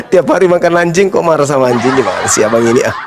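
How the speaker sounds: quick teasing words through laughter; laughing mockery. Real, not acted. Preacher laughing as he mocks the angry caller. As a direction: laugh at him while you tease.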